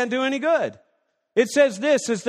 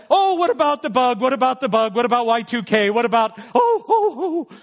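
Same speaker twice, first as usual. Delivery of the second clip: mock worry. Mocking anxious Christians.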